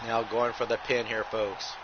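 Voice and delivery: running ringside commentary calling every move; wrestling play-by-play. Acted. Commentator calling a blindfolded wrestling match to viewers, play-by-play. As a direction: call the match move by move, punching each folks.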